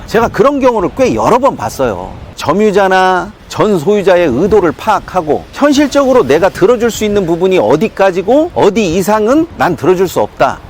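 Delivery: ordinary delivery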